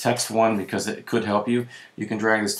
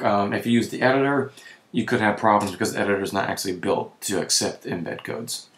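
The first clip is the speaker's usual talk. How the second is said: tired, hoarse throat. Real, not acted. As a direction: voice giving out, hoarse. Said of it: "my voice is going on me".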